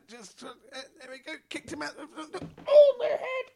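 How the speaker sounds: high robotic voice, rising to loud; a robot tumbling out the door. Pretend. Robot being kicked out.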